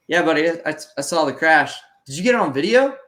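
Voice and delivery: humouring coach. Retold or imitated. Coach humours the concussed rider.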